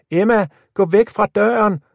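high, loud warning shout. A narrator's reading. Lisa warns Emma away from the door, shouting. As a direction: yell a warning through the door. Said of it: "råbte Lisa".

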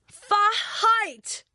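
high, outraged storybook shriek; indignant scream. A narrator's reading. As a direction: shriek it in offended disbelief. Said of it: "skriger Rita". (forarget skrig)

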